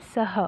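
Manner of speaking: सः with a breathy echo of the vowel, sa-ha; visarga pronounced. Shown as a demonstration. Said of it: "उनका अह ऐसा उच्चारण करते हैं".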